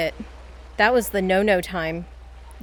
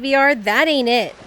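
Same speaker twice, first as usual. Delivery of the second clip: mock mad; 5 dB louder than usual. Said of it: "I'm mad at you".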